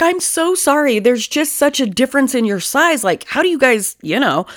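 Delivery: acted-out sheepish question; apologetic stranger. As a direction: imitate an embarrassed, prying stranger.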